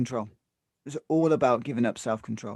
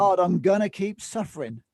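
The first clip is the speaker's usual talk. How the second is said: mock indignant protest; 3 semitones higher than usual. End of the acted protest.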